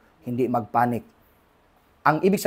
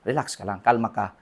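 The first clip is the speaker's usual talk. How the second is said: calm reassurance; 7 semitones lower, 8 dB quieter than usual. Retold or imitated. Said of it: "sabi ni Lord".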